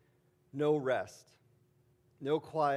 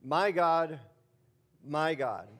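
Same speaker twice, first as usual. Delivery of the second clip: an anguished cry of My God; loud plea; 2 semitones higher, 5 dB louder, much slower than usual. Acted. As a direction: call out to God in pain. Preacher voices the psalm cry.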